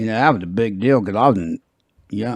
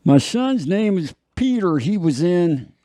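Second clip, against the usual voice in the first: lightly higher proud father; a hint of the famous actor; Henry Fonda impression; 8 semitones higher than usual. Host continues the Fonda voice, lightly higher. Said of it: "Henry Fonda".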